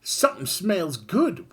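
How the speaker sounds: high, excited sniff at a smell; Kid's voice. Acted. Kid tempting the party toward food, high and eager. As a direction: lean in, eager about the smell. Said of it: "whispered Kid".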